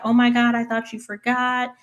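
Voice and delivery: high-pitched mock surprise; delighted surprise. Birthday girl to family arriving with cake, happily surprised. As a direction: imitate someone touched by a birthday surprise.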